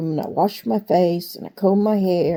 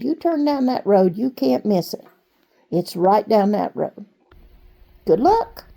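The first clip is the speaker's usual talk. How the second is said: sweet waitress. Retold or imitated. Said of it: "And she said".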